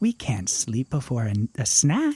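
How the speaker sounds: breathy character voice. Game master voicing Monty as Ada tries to sleep, Monty's quiet breathy voice. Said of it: "it's just gotta be a quiet little breathy voice".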